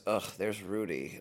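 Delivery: low, slow, weary groan of a line; eye-rolling disdain. Retold or imitated. Label friend spotting Rudy in line, eye-rolling disdain. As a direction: imitate her unimpressed, slow and under the voice. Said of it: "she, like, rolled her eyes".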